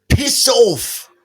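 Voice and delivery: high, loud British "Piss off"; imitating his British friend; British accent. Telling the Brit kids how his friend says it, in a British accent. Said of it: "he goes like".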